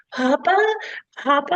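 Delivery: high-pitched cartoon mouse calling Papa; little mouse. Wife retells the movie's ending to husband, high little-mouse voice. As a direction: imitate a small mouse calling out for its father. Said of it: "the little mouse, and he's going".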